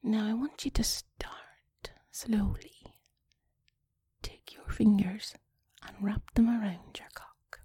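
slow, whispery seductive instructions; put-on sexy talk. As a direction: guide a lover intimately, with long pauses.

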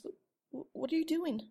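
alarmed question. Acted. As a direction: jolt up in shock. Startled by teacher's hands.

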